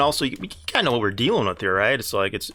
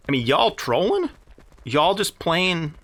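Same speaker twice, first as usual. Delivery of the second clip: raised, disbelieving jabs at the rival guild; incredulous; 5 semitones higher than usual. Real, not acted. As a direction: call them out in open disbelief. Incredulous jab at rival streamers.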